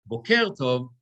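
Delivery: boker tov with boker stressed on its last syllable; misplaced stress in boker. Shown as a demonstration. Teacher showing a visitor's mistake, boker stressed on last syllable. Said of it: "say good cowboy instead of good morning".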